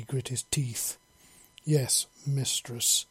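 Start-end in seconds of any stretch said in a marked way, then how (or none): 1.6-3.0 slight growl. Acted. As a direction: growl it out slowly. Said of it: "with a slight growl to his voice".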